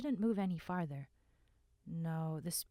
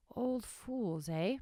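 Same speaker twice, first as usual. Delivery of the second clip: calm voice; 6 semitones higher, slower than usual. A narrator's reading. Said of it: "the calm voice said".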